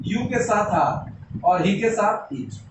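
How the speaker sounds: each pairing laid out slowly; very slow, deliberate teacher recital; slow emphatic recital. Shown as a demonstration. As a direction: spell it out word by word for the class. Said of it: "गौर फरमाइएगा इसका".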